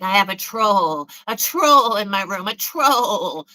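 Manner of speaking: mock tripping friend. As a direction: imitate someone tripping, stretching each troll. Mimicking friend tripping on LSD.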